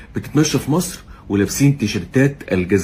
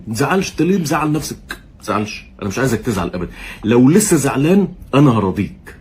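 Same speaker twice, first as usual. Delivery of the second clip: mock soothing. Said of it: "بحاول ابقى حنين عليك".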